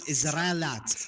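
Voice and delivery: "Israelat" drawn out, without the -iyat ending; attempted pronunciation. Shown as a demonstration. Learner asks opponent how to say it, mispronounced. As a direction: say "Israelat" slowly, swallowing the i-ya. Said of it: "How do I say it?".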